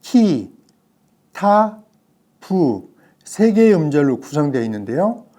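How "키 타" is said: 키 then 타 held apart, 타 pitched higher; stress on TA. Shown as a demonstration. Teacher breaking down 키타부, stressed 타. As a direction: lift 타 above 키 in the syllable-by-syllable reading. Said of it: "이 키타부의 예를 들어보면".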